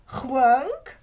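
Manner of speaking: "chwunk" said as one slurred syllable; slurred pronunciation. Shown as a demonstration. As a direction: glide "chwunk" together in one beat. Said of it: "pronounced as if they're with a slur".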